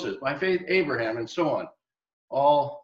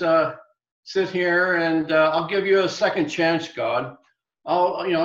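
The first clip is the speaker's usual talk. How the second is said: lounging prophet with his iced tea, smugly waiting; smug sarcastic Jonah. Acted. Jonah mocking, waiting for destruction.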